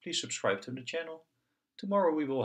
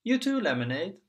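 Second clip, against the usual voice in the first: put-on high child voice; 9 semitones higher, 6 dB louder than usual. Piggy plays doctor to doll.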